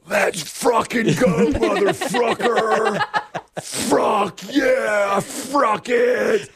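hammed-up high, drawn-out yell with laughter breaking in; imitated yelling. Retelling a player celebrating to his dugout, high mock yelling. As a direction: yell like a ballplayer hollering to the dugout. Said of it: "he's yelling to the dugout".

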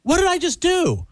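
very high, slow cry of regret; mock panic. Brother after signing up with the salesman, high mock-panicked regret. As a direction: imitate a man horrified at himself.

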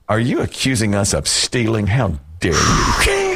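mock outrage slowing on the last words; retold affronted retort, drawn out at the end; indignant mother. Mother to woman claiming their seats, mock indignant. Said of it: "who never has raised her voice at anybody".

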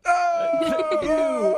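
high mock surprised oh; hammed-up fake recognition; fake surprise. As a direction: act like you know her. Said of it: "I'm like".

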